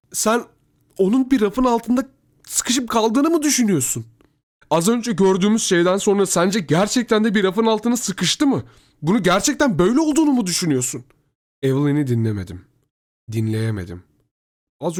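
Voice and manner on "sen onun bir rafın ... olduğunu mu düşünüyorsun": high-pitched, loud incredulous begging; pleading. A narrator's reading. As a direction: plead urgently, pressing each question. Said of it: "bana yalvarmaya başladı". (inanamayarak, tiz sesle yalvarma)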